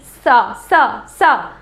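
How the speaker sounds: "सा" repeated as isolated syllables; consonant sound demo. Shown as a demonstration. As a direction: sound out each "सा" separately with a pause. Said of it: "restriction आ रहा है बोलते समय". ("सा" हर बार अलग-अलग बोलकर दिखाएँ)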